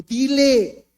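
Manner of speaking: loud urgent call; God's voice urging; divine command. Retold or imitated. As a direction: push him to speak. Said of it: "la voz de Dios que me dijo".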